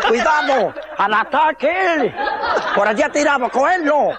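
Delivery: rally the cooks after the parrot; mock attack cry. Cooks with knives chase the parrot.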